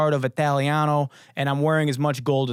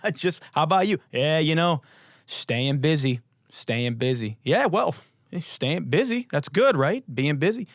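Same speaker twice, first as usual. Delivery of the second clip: mock small talk; 2 semitones higher than usual. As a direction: mimic empty wedding pleasantries. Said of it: "every wedding conversation ever".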